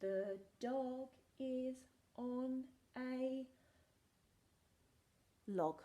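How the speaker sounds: drawn-out reading aloud; very slow reading. Shown as a demonstration. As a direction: stretch each word very slowly. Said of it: "very slow reading".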